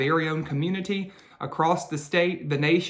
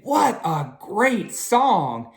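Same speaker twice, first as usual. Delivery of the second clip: lightly voiced little bird, higher and slow; a hint of a chirpy bird; little bird politely asks to join the song; 6 semitones higher, slower than usual. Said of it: "A little bird tweeted".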